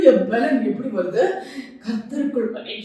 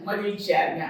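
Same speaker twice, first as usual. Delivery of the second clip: மகிழ்ச்சியா இருங்க said much softer, dropping away; softer repeat; 3 semitones lower, 5 dB quieter than usual. Shown as a demonstration. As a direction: echo the words softly. (மெதுவாக மீண்டும்)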